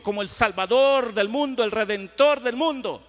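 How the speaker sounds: loud, driving pulpit oratory; forceful preaching. Real, not acted. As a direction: proclaim it to the whole congregation. (predicación a plena voz)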